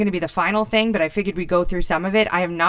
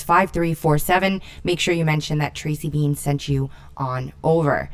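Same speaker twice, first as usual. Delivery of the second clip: ad read; 3 dB louder than usual. Acted. Sponsor ad read.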